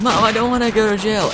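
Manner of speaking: loud, high mock wail; hammed-up high-pitched whine to mom; imitating tearful teen. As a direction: plead like a girl about to cry. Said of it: "And she starts crying".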